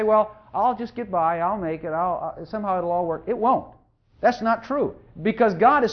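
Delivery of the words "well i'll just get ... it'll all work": lightly voiced defeatist. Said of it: "the mentality of inferiority is to say".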